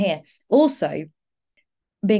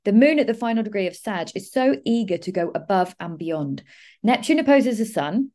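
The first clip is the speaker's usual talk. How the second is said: reading own horoscope notes aloud; measured, emphatic written-piece delivery. Real, not acted. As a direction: read it out like a prepared astrology forecast.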